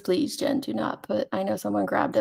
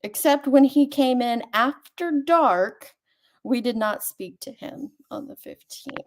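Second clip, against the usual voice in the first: mock Louisiana accent; 3 semitones higher than usual. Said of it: "I'm just horrible at accents".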